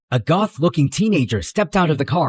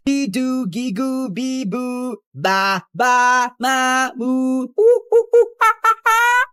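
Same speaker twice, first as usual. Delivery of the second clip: put-on high-pitched childish nonsense babble; drowning-out babble; 9 semitones higher, slower than usual. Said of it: "I'm not listening to your rant".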